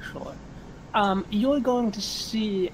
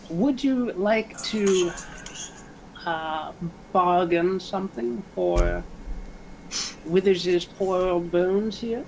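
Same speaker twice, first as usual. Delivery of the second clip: lightly voiced raspy old hag, a touch higher; raspy crone voice; 3 semitones higher than usual. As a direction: offer the bargain like a sly old crone, only lightly put on. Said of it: "in her raspy voice".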